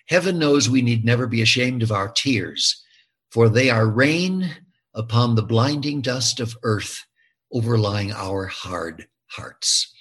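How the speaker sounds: measured recital, slowing and softening to the end; literary quotation. Acted. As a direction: recite a solemn line, letting it sink away. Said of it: "there's a great quote from Dickens".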